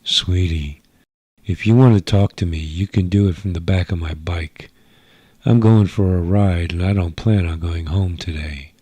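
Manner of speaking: a bored rebel toying with him; teasing alien girl. Acted. Sheila teases the agent.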